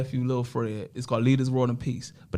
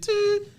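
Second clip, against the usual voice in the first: imitated tube noise.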